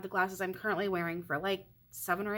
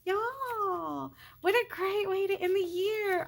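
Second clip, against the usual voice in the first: close to tears; 13 semitones higher, slower than usual. Real, not acted. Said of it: "I'm about to cry right now".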